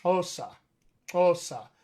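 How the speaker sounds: "osa" begun with a tongue click; click, then release straight into "osa"; click-initial pronunciation. Shown as a demonstration. Teacher demonstrates the clicks in Xhosa, careful click pronunciation. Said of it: "combined with".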